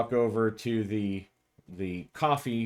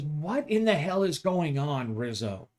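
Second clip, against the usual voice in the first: stern demand; 5 semitones higher than usual. Acted. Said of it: "Dana comes out of her office and says".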